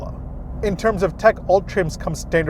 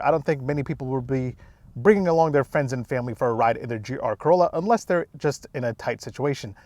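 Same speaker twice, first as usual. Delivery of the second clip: frozen mouth. Real, not acted. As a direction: mouth numb from the cold. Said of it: "my mouth is frozen and it's really cold outside".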